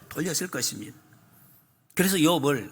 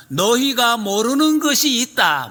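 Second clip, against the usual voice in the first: slow, high, ringing proclamation; solemn divine voice; 6 semitones higher, 5 dB louder, slower than usual. Acted. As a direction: announce it slowly like God speaking. Preacher voicing God's message. (느리고 높게 선포하듯)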